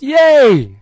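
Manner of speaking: put-on high, loud excited child's yay; a thrilled six-year-old shouting yay; child's cheer. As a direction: squeal it like a happy little kid. Six-year-old cheers when hearing news.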